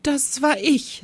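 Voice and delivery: high, slow sheepish little voice; lightly voiced timid teacher confesses; embarrassed smile. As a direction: own up with a shy smile. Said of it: "mit verlegenem Lächeln".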